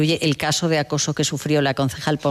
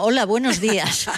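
a mildly higher, friendly greeting in imitation; saludo cordial imitado; 5 semitones higher than usual. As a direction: greet the carriage like a polite newcomer. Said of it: "cuando entraba en el metro saludaba". (saludo amable imitado)

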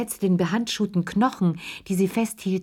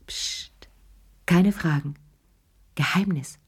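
secretive whisper. Acted. Lea hides her secret.

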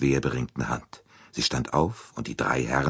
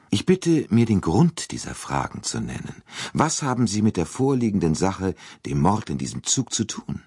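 higher, haughty demand; an old aristocrat demanding answers; indignant princess; 7 semitones higher than usual. Acted. (empörte alte Fürstin, höher)

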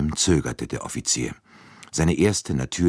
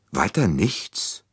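slow, let-down question; a mildly disappointed doctor; doctor let down by the answer, slow; 4 semitones higher, slower than usual. Acted. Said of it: "meinte der Arzt enttäuscht".

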